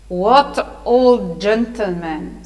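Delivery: very slow, drawn-out demand; restrained mock shriek, heavily drawn out; demonstrated shriek. Shown as a demonstration. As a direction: stretch each word in an impatient demand. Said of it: "To shriek means to talk like this".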